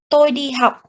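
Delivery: "Tôi đi học" with every syllable the same length, like Vietnamese; each syllable of "Tôi đi học" evenly timed; even syllable timing. Shown as a demonstration. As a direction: give "Tôi", "đi", "học" equal, steady beats. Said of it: "had the same length".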